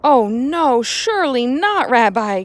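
loud, high pleading protest; crying out. Acted. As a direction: cry out in protest. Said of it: "cried the man".

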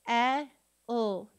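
S. E. L. as loud held sss, short eh, ull; each sound of S. E. L. alone, not letter names. Shown as a demonstration. Teacher sounding out a syllable, S. E. L. sound by sound. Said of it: "Let's sound out each syllable".

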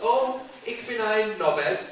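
hammed-up German-Scouse reply; German learner of Scouse. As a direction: play a German showing off Scouse. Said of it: "What are you gonna get, learn".

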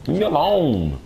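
squeaky pestered whine; high whiny voice. Pretend. Voicing pestered character high.

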